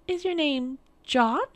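high, slow questioning queen; queen guessing. A narrator's reading.

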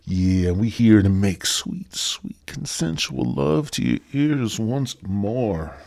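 slow, hammed-up seductive croon; mock sexy. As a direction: drag it out like a cheesy lover. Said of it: "Yeah, that was sexy".

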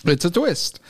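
sore throat, careful swallowing; after tonsil surgery. Real, not acted. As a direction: speak like it hurts to swallow. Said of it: "Sorry, it hurts to swallow".

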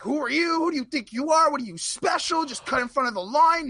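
mock angry old lady scolding; mock scolding old woman. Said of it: "So she's like".

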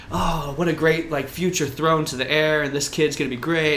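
mocking gushy media voice; gushing media voice. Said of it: "the media was talking about".

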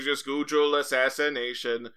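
"Google" said as "GOO-jul"; mispronouncing Google. Acted. Expert advising guest on the dark web, mispronounced. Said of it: "are you insisting on saying Google".

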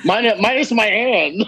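slow, laughing tag line; laughing punchline. Real, not acted. Laughing as he tags his own joke about losing a hand. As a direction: deliver the joke through a chuckle.

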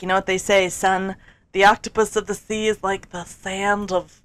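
folksy wisdom. Retold or imitated. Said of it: "if you make it sound folksy".

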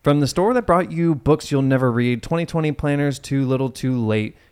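upbeat commercial read; hard sell ad. Acted. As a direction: sell it like a TV spot. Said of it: "I have to read this like an ad".

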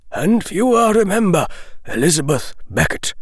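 put-on measured, grave old wizard. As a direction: speak as a wise old headmaster. Dumbledore's closing speech.

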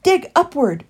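firm, high-pitched command; ordering. A narrator's reading. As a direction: give an urgent order. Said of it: "ordered Heathly".

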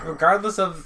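loud, high growly Batman impression; Cookie Monster voice. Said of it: "Why do you sound like, like the, the, the Cookie Monster?".

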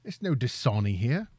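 mock British accent, Cockney-style. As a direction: play at being British. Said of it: "say that with a British accent".

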